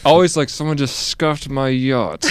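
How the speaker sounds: slow mock mid-Atlantic complaint; lightly put-on mid-Atlantic yacht owner; mid-Atlantic accent. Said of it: "you had the mid-Atlantic accent".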